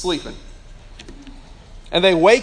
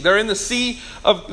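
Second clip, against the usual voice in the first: ordinary delivery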